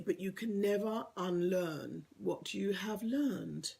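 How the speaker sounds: slow, lightly solemn wise-master line; slow it down like a wise old Jedi; Star Wars sage. Acted. Telling online viewers change sticks, slow mild Jedi-sage delivery. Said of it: "I sound a bit Star Wars here".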